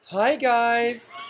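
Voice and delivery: high-pitched mock greeting; mock co-host impression. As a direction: imitate your co-host in a high voice. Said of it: "do me".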